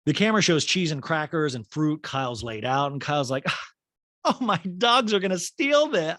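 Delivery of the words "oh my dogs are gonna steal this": Kyle voice. Retold or imitated. Voicing Kyle fussing over dogs.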